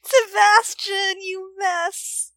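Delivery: cracking up while scolding; laugh-crying exclamation. Real, not acted. Laughing at clumsy character.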